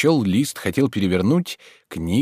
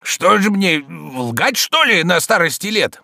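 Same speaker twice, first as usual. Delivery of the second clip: defensive; 9 semitones higher, 5 dB louder, slower than usual. A narrator's reading. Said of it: "оправдывался Захар".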